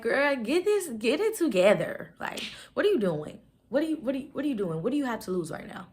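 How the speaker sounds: loud, high-pitched talking-to to herself; exasperated "girl, get it together" energy; self-scolding pep talk. Acted. Scolding herself into getting started.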